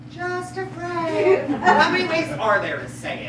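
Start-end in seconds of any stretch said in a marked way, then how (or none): 0.1-1.5 slow, careful re-enactment; JUST A FRIEND stretched out, fuller voice; imitating the caller. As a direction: demonstrate exactly how the caller said it. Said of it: "How did she say it?".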